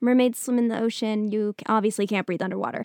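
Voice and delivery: ordinary talk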